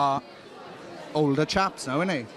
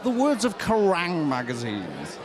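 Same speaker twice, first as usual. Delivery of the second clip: mock announcer; 3 semitones lower, slower than usual. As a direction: boom it out like a radio trailer. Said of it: "I was terrible".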